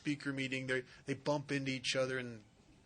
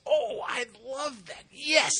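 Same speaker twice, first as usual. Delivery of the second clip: rising, louder, gushing acceptance; mock-gush it like she'd follow him anywhere; eager yes; 7 semitones higher, 4 dB louder, slower than usual. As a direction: girlfriend overeagerly accepting a football date, gushing. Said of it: "She says".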